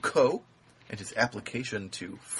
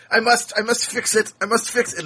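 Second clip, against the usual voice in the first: dramatic compulsion; 11 semitones higher, 8 dB louder than usual. Retold or imitated. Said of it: "and I said".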